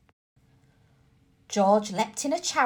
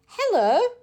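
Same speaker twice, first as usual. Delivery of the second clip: high, eerie calling hello; ghostly hello; 11 semitones higher, 4 dB louder than usual. A narrator's reading. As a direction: call out spooky from the dark. Mummy's voice from shadows.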